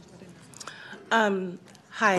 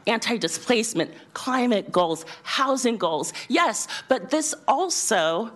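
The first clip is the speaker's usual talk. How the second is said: teacher voice. Real, not acted. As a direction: project to the back row. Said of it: "I'll use my teacher voice".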